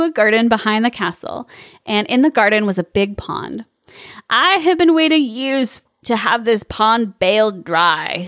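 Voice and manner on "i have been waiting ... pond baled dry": witch voice. Acted. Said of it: "said Bony Legged".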